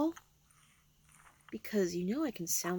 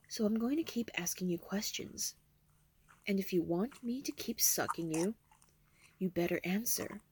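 whispering. Acted. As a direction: whisper it close and teasing. Seductive whisper.

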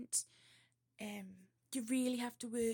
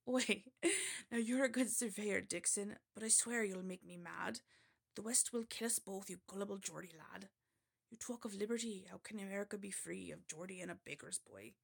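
rough go at West Country; West Country accent; 2 semitones lower than usual. Acted. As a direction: scold your mate in West Country. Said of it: "this is a West Country accent, supposedly".

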